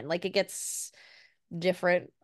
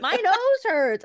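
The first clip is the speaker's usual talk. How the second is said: high, loud, slow wail; hammed-up, drawn-out little-kid cry; wailing toddler; 13 semitones higher, 8 dB louder, much slower than usual. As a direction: imitate a small child wailing in pain. Mother voices child's complaint.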